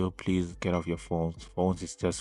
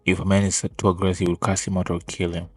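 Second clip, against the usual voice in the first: louder, pressing every point; heated rant; 6 dB louder than usual. Real, not acted. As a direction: push back hard, voice raised. Heated rebuttal to the video.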